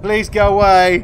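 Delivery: pleading. Real, not acted. Begging the monster.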